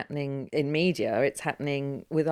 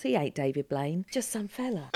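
put-on London accent; 4 dB quieter than usual. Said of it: "we can use that from anyone else".

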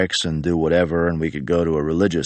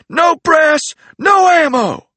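barked order; 7 dB louder, slower than usual. Retold or imitated. Range sergeant barking order.

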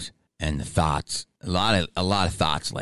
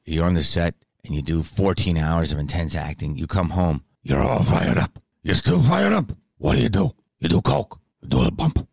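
Pacino impression. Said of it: "I'm trying to do the impression".

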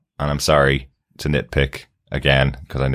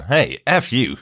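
rude droid; 7 semitones higher, much slower than usual. Retold or imitated. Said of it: "Chopper going".

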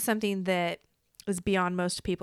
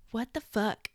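whispered disbelief; 5 dB quieter than usual. Real, not acted. Reacting to AI reply.

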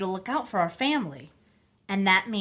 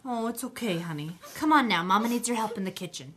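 soothing; 3 dB quieter than usual. Acted. Mother soothing daughter.

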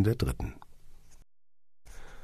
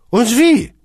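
sighing; 11 dB louder than usual. A narrator's reading. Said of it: "seufzte Kunze".

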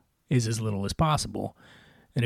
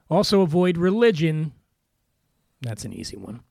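whisper. Acted. Aside warning about religion.

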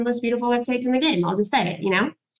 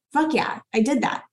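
proud brag; 3 semitones higher than usual. Shown as a demonstration. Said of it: "We wanna talk from this".

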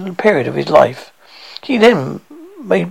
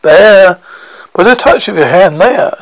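echoing ethereal energy being; 3 semitones higher, 7 dB louder than usual. Acted. Spirit speaks, echoing ethereal being.

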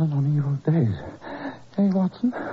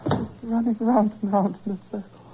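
feverish raving; 5 semitones higher than usual. Acted. Delirious patient raving.

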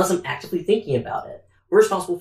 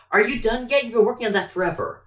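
impatient coworker; 6 semitones higher than usual. Acted. Acting out an impatient coworker's complaint.

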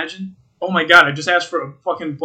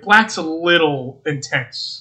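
mock barista; much slower than usual. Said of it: "She was like".

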